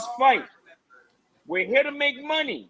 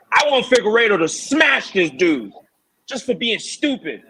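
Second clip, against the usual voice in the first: emphatic; 6 dB louder than usual. Real, not acted. Emphatic demand for knockout.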